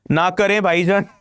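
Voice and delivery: put-on quick Pakistani accent line. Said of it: "in their Pakistani accent".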